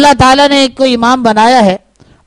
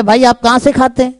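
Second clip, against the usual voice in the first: plain; faster than usual. Shown as a demonstration. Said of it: "سیدھا سیدھا جواب ہے".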